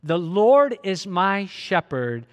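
slow, drawn-out verse led for the congregation; slow congregational reading. Shown as a demonstration. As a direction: lead them slowly through the line. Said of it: "Help me out".

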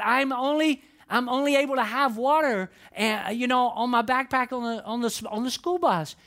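lightly voiced upset child; upset little girl. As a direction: play the worried little girl. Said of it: "But she's so upset".

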